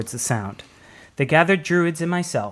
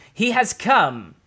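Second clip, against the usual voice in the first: put-on slow, solemn old druid voice, higher; slow elder's proclamation; 8 semitones higher, slower than usual. A narrator's reading. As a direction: intone it like an ancient elder.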